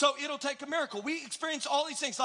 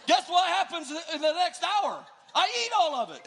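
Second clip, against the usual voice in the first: playful confession; 6 semitones higher, 5 dB louder than usual. Acted. Confessing the holiday feast.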